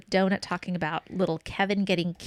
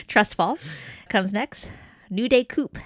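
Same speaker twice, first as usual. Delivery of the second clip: cracking up mid-line; 3 semitones higher, 5 dB louder than usual. Real, not acted. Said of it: "I'm laughing at my own titles".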